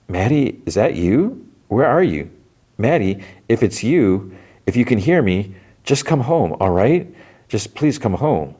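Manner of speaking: retold frightened plea; pleading call. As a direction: beg a lost friend to come home, mildly acted. Girl calls to voice in pipes.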